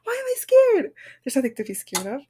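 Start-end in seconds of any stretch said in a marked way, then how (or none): 0.0-0.9 high, loud, drawn-out laughing wail; laughing nervously. Real, not acted. Podcaster laughs at her own stage fright, nervous laughing. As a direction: crack up at your own nerves, pitch shooting up.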